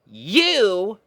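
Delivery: a pony captain lining up her troops; Rainbow Dash voice, bossy and bright. A narrator's reading. Rainbow naming puppy.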